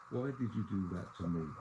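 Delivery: soft, quiet question, no accusation; asked quietly. Shown as a demonstration. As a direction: ask it quietly, without a scene. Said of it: "I stress quietly".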